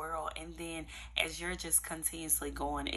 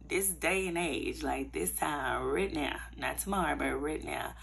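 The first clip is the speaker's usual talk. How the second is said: loud and insistent on right now; emphatic; 6 dB louder than usual. Real, not acted. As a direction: press it home, not tomorrow. Urging listeners to act now.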